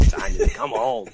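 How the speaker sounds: high, slow, whiny mock plea. Mocking the brother-in-law begging Simon to come home, whiny and slow. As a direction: drag it out like a pouty friend begging. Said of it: "He's like".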